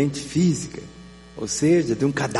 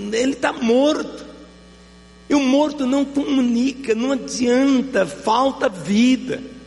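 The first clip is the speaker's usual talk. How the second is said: fervent preaching; 6 semitones higher than usual. Acted. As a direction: build the sermon with rising fire. Prega com força crescente. (pregação fervorosa, mais aguda e forte)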